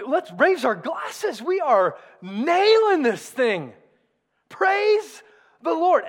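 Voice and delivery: hammed-up, smug church cheering itself on; mock celebration. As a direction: raise a glass, slowed and triumphant, mockingly. Mock self-congratulating church.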